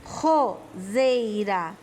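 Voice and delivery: slow ROSEIRA opening on an aspirated R; strong R example. Shown as a demonstration. Teacher gives pupils an example, slow Roseira with strong R. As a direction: stretch Ro-sei-ra, first R like an H. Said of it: "ela tem o som forte".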